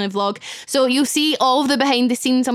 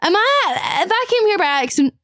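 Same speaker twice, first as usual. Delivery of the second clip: high, stunned disbelief; can this really be happening; disbelieving inner voice; 4 semitones higher than usual. Retold or imitated.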